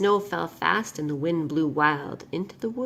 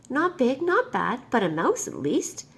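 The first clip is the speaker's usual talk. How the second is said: high then hungry, louder; gleeful little monster; 4 semitones higher, 4 dB louder than usual. Acted. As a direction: savour the thought of a snack. Hungry child spots the mouse.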